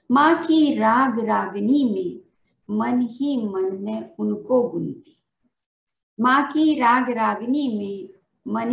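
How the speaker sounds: measured, sing-song reading of a poem, lines repeated; poem recitation. Acted. Teacher reciting her poem at a Hindi Day event, rhythmic and measured. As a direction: recite each couplet to the audience, then repeat it.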